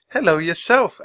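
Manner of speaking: high, bright smiling greeting; high, friendly girl's hello. A narrator's reading. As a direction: greet a baby bird with a smile. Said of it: "Annie said, smiling".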